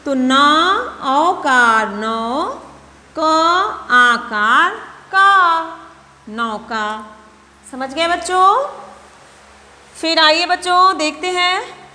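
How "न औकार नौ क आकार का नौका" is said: slow syllable-by-syllable spelling: न, औकार नौ, क, आकार का; teacher spelling नौका aloud for children. Shown as a demonstration. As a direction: sound out नौका letter by letter, then blend. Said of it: "अब हम नौका को पढ़ेंगे".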